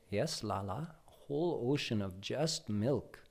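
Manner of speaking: mother gently reassuring her little son; tender mother. Acted. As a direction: answer him softly like a bedtime story. Mother answering the child.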